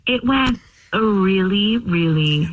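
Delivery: each "really" drawn out slowly for innuendo; slow, loaded "really, really"; suggestive emphasis. Real, not acted. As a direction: stretch out "really" with knowing emphasis. Coy confirming that they slept together.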